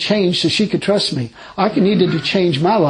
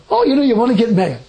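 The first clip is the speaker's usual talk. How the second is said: laughing; 3 semitones higher, faster than usual. Retold or imitated. Retold argument with God, laughing.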